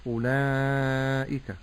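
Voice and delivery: أولئك pushed through the nose, slow; nasal mispronunciation. Shown as a demonstration. Sheikh imitating reciters who nasalize the vowels. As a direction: say أولئك nasally, on purpose wrong. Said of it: "يخرج هذه الحروف من الخيشوم".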